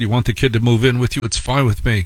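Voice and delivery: normal talking voice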